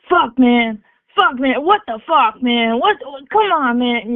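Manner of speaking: loud exasperated dad swearing; mock pissed-off dad, cursing at the mishap; imitating angry dad. Dad cursing after daughter's fall, loud and exasperated. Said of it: "He says".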